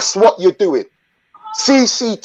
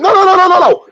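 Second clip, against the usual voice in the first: loud repeated no; 11 semitones higher, 5 dB louder, faster than usual. Real, not acted. Cuts off interruption loudly.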